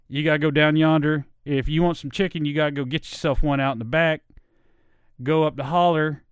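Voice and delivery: put-on the old Virginia country voice, drawled easy; Southern country accent. Shown as a demonstration. Showing listeners her old voice, a light Appalachian country accent. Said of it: "this is the voice that I had to get rid of".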